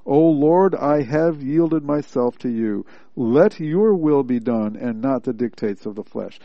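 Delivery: emphatic prayer of surrender, settling after a strong start; emphatic declaration. Acted. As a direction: declare it emphatically to God, leaning on "yielded" and "your". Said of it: "an emphatic way of saying".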